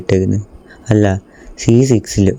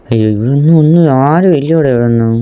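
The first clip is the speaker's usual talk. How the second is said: surprised cry; 5 semitones higher than usual. Real, not acted. Empty map surprise.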